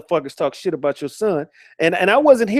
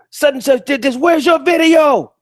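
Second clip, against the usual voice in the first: high-pitched mocking voice, much higher; mocking whiny question; 8 semitones higher, 4 dB louder than usual. Streamer mocking a rival who begs for videos, high mocking whine. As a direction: mimic him whining for proof. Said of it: "he's always asking motherfuckers".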